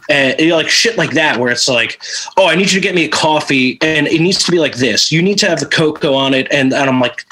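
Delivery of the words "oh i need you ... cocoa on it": quick, higher, fussy order; mock fussy boss rushing instructions; fussy demand. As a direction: rattle off the picky coffee order. Quoting the picky coffee order.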